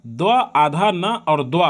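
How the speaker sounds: द्व आधा न और द्व spoken slowly in parts; slow spelling breakdown. Shown as a demonstration. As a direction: spell द्वंद out for the class. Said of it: "ऐसा लिखा पाएंगे आप".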